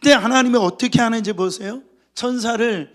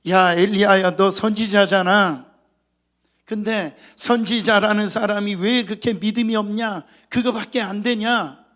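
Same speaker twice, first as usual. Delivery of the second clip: hypothetical telling-off, louder at the start; mock scolding; 3 dB louder than usual. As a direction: imitate a reproachful scolding, mildly. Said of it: "이러면서 혼내지 않았고요". (혼내는 흉내)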